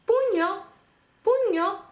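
пуньо with nasal ñ, high and slow; Spanish puño. Shown as a demonstration. Teacher models пуньо for the class. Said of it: "подивимось на приклади".

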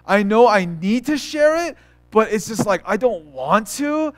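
acted reluctant complaint, dragging some words; mock-reluctant admission; dreading. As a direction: drag it out like an unwanted duty. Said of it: "you dread it".

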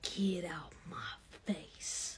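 unvoiced, hushed get-out; dry whispered brush-off; hushed dismissal. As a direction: send the kid away in a low hush. Mom dismissing child's ride request.

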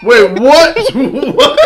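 shocked. Real, not acted. Hearing the twist in the clip, he blurts it out, loud and high. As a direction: blurt it out, caught off guard.

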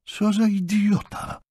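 high, slow exasperated insult; annoyed woman's drawn-out exclamation; irritated. A narrator's reading. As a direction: pitch it up and draw it out, fed up. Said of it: "zdenerwowała się Madeleine".

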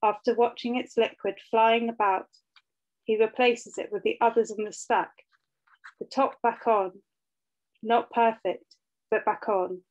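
measured poem recital with deliberate pauses between phrases; poetry reading. Acted. Poet reads their poem about motherhood to an audience, measured poetry reading. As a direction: read each line evenly, letting it land before the next.

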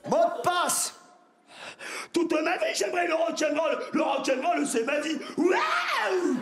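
high shouted rock anthem. Acted. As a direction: belt it like a rocker.

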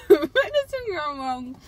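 talking while chewing; laughing through a mouthful; mouth full, chewing. Real, not acted. Seen 1: Driver bit bar at -2, talks with food, holds bar.

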